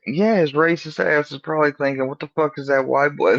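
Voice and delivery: high-pitched, animated mimicry; imitating friend. Friend voicing what cop thinks.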